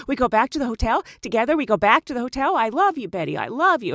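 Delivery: mock lovesick broken English; lightly voiced lovesick driver; imitating taxi driver. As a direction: press her in his pushy voice. Voicing the driver.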